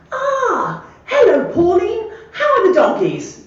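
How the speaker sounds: put-on high, loud, laughing posh old man; amused imitation of the gentleman's silly greeting. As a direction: crack up while doing his plummy hello.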